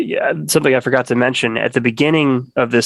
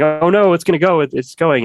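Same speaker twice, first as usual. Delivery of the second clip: higher, lightly panicked crowd voice; mock freak-out; 5 semitones higher than usual. People reacting to a small Bitcoin crash, mock freak-out. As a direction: imitate people fretting, pitched up. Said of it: "people started freaking out saying".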